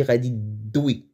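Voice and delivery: غادي دوي with T merged into a strong, stressed D; correct form with D. Shown as a demonstration. Teacher giving the right Darija form, heavy D. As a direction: hit the D of دوي hard, no T. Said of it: "on accentue la prononciation du D".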